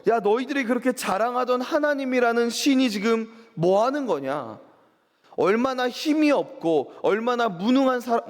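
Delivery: mock the exiles as a scornful foreigner; preacher voicing the pagans' jeer, mildly acted; mocking taunt. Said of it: "즉, 그들이 이렇게 조롱한 거예요".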